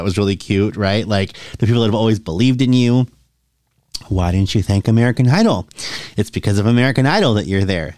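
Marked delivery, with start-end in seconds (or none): 4.1-7.9 mock critics. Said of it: "That's what people thought".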